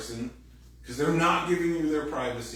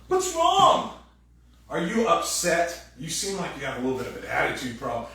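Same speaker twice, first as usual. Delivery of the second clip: much higher, louder, mocking nag; mock nagging question; 5 semitones higher, 6 dB louder than usual. Partner asking a dumb question in the car, mocking high nag. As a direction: needle them with a fake-innocent question.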